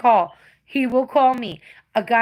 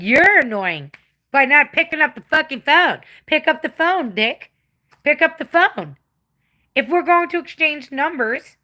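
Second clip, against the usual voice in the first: raised, heated scolding of an ignoring man; angry rant; 5 semitones higher, 3 dB louder than usual. Retold or imitated. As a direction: tell him off, louder and higher. Ranting quote at men who ignore her.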